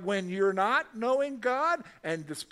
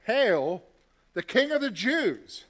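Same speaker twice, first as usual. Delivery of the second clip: loud mock hail, higher; mocking cry; 4 semitones higher, 7 dB louder than usual. Soldiers taunting Jesus in a purple robe, loud mockery.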